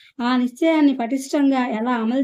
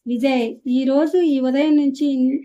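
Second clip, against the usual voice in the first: firm protest; slower than usual. Acted. Acted quarrel between two brothers.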